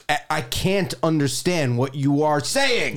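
slow, deliberate mock exasperation; retold exasperation. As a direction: space the words out as if fed up. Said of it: "I get so mad".

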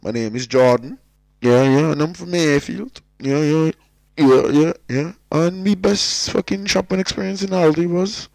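hammed-up Cork accent, high and loud. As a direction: introduce yourself in a big Cork accent. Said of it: "doing the Cork accent fully there now".

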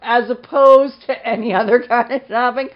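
laughing mockery. Real, not acted. Mocking people who say food shopping.

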